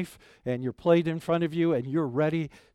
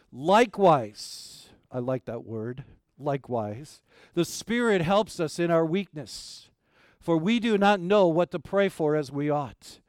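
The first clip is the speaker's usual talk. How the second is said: scripture reading. Acted. Pastor reading Romans to the congregation, solemn reading. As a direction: read the verses like holy words. Reads Romans eight aloud.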